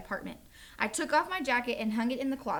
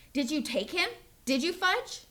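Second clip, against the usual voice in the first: rising, pressing question, higher at the end; not so calmly; 6 semitones higher than usual. Acted. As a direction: push the toddler for an answer. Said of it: "not so calmly".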